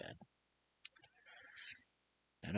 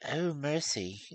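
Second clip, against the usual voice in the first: horrified cry; 12 semitones higher, 6 dB louder, slower than usual. Acted. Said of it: "cried the mother".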